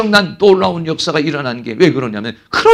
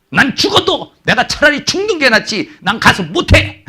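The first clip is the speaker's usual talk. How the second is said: proud refusal; 7 semitones higher than usual. Retold or imitated. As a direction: refuse with wounded pride. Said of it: "이게 우리나라 사람들의 자존심이라고".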